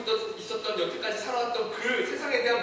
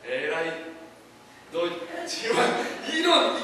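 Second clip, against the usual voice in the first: mock scolding; 5 semitones lower than usual. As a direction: act out an exasperated telling-off, halting between words. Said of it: "질책이 아니에요".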